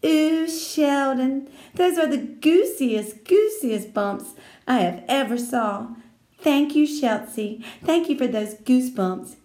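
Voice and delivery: put-on pleased girl thanking an admirer; delighted Lucille. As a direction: coo over him, stretching words. Lucille delighted, face beamed.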